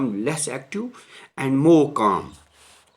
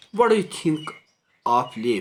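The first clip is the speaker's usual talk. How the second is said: put-on high, louder questioning girl's voice; a raised, lively girl's question; Italian girl asking; 5 semitones higher, 5 dB louder than usual. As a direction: ask it brightly as the curious tourist. Teacher voices Italian girl again.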